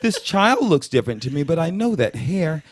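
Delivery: high, laughing mock white lady; curious white woman. White women eyeing his kid's curls, high mock voice. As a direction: fawn over the hair with a laugh. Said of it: "And I think it was".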